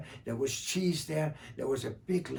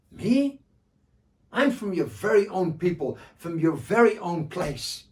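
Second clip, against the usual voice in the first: raised, bright trickster answer; sly and eager, a little louder; Joha voice; 5 semitones higher, 8 dB louder than usual. Acted.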